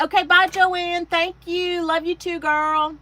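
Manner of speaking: loud, high-pitched goodbye; affectionate farewell. Real, not acted. Host sees off a departing viewer, loud affectionate farewell. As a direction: call out a big, fond send-off.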